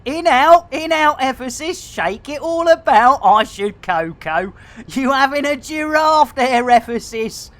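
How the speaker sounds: badly faked Glaswegian banter; terrible Glaswegian accent. Streamer teasing a viewer who popped out, terrible Glaswegian accent. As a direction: tease in a dodgy Glaswegian accent. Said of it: "after that terrible Glaswegian accent".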